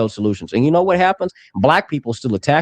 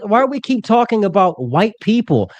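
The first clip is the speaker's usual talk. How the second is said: exasperated outburst; 9 semitones higher than usual. Real, not acted. Heated argument, cutting in loudly.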